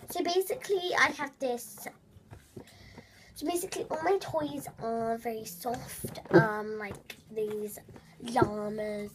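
lightly put-on vlogger voice; slow, drawn-out chat about toys; a light impression of a toy-loving YouTuber; Nudorella. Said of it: "that's what she sounds like though".

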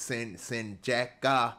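Sincheka said slowly, restarting after Sin-; sounded-out name. Shown as a demonstration. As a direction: sound out Sincheka slowly as if copying a translation app. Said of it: "I guess from Google Translation".

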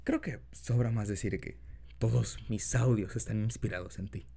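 put-on soft boyfriend voice; gentle, intimate partner talk; incubus. Talks to listener as boyfriend.

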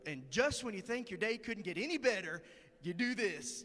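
upbeat, brightly thankful retelling; imitating an unshakably cheerful coworker; cheery acceptance. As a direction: make the mishap sound like a blessing. Coworker cheerful after spilling coffee.

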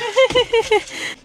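bright burst of laughter; high laugh. Real, not acted. Amused laugh at partner's joke.

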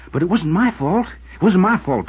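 high, loud pleading cry; begging not to be blamed; an anguished, pleading shout; desperate plea. Acted. Alex pleads his innocence.

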